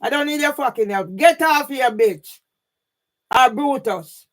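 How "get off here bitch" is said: louder, snapping "Get off here, bitch"; fed-up real outburst; real angry telling-off. Real, not acted. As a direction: drive the viewer away in real anger. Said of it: "Madam, please stop shouting".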